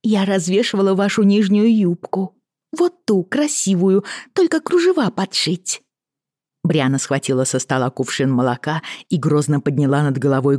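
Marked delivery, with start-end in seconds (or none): 0.0-5.8 cartoon princess. A narrator's reading. Lizzie teasing in story.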